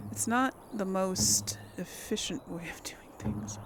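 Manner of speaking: whispered aside. Real, not acted. Aside muttered to self.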